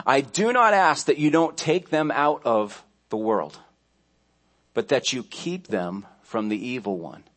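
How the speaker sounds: deliberate Bible reading with pauses; scripture reading. Acted. Preacher reading Jesus' prayer to congregation, deliberate scripture reading. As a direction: read it solemnly, phrase by phrase.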